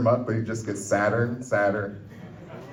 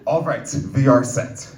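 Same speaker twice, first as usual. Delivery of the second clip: slow, bad mock-Russian accent; terrible Russian accent; slower than usual. Cook announcing the packing is done, terrible Russian accent. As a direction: lay on a clumsy Russian accent, drawn out. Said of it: "in a terrible Russian accent".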